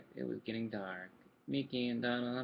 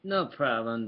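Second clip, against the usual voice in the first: anxious; 3 semitones lower, 10 dB louder, slower than usual. A narrator's reading. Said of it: "Donald said anxiously".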